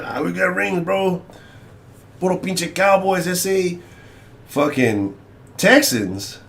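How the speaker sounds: hammed-up Chicano football fan; caricatured Chicano accent, bragging about the team; exaggerated Chicano accent. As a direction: put on a broad mock Chicano accent. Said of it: "the most racist accent you've ever done".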